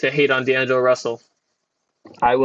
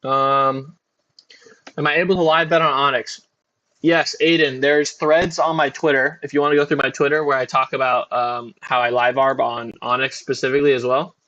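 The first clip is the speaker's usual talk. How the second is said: talking through a bite of banana; chewing while talking. Real, not acted. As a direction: answer with a mouthful of banana. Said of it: "Sorry if you hear me eat my banana".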